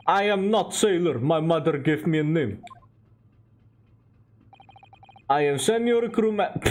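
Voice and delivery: put-on proud sailor in light Russian accent. Senior crewman insisting on his rank, Russian accent. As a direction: stiffly correct them, Russian accent.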